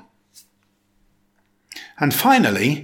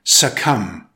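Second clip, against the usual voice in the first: "succumb" as suh-KUM, second syllable stressed, silent B; careful teacher's model of "succumb", B left silent; 2 semitones lower than usual. Shown as a demonstration. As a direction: lean on the end of "succumb". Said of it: "with stress on the second".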